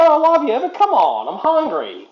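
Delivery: high, loud plea, falling back at the end; impatient pleading. Real, not acted. Hungry man begging Sheila to let him go, impatient plea. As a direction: beg to be let go.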